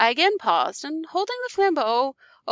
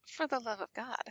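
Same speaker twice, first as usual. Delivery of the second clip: much softer, flat repeat; cold mocking echo; 12 dB quieter than usual. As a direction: hand his plea back quietly and coldly.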